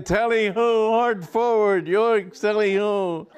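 high, loud huntsman's yell; bay like a huntsman in full cry; loud, high yoicks; hunting cry. Acted. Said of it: "uncouth sounds would proceed".

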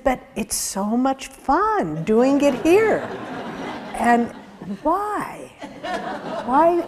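mock the lady's giddy joy, laughing through it; laughing delight. Retelling the guest's words about seva, a touch of laughing delight. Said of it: "She said".

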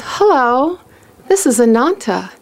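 lightly imitated sweet, humble phone voice; Ananta. Humble friend phoning a devotee, lightly sweet voice. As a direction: gently introduce yourself, a touch sweet and humble. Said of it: "the sweet, humble voice of Ananta".

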